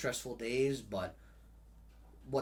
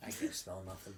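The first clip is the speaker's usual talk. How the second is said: whiny complaint; 5 dB quieter than usual. Real, not acted. Complaining of blocked nose.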